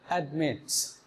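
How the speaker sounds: অ্যাডমিটস said low and clear as /admeʈs/; model word said again. Shown as a demonstration. Teacher repeats অ্যাডমিটস for students. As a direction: say অ্যাডমিটস slowly for the class. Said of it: "আর একবার বলুন".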